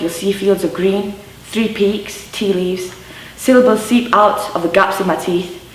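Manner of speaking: spoken-word poem in measured phrases; poem recital. Acted. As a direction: recite it line by line, letting each image land. Recites a poem about Yorkshire.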